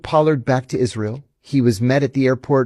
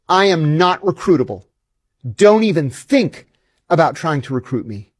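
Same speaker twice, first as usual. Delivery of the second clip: retold anger; 4 semitones higher than usual. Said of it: "I was enraged".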